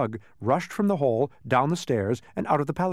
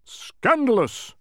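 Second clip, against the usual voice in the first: high, loud, drawn-out exclamation; slow royal outburst; outraged shout; 6 dB louder, much slower than usual. A narrator's reading. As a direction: shout it like a scandalised king. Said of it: "shouted the king".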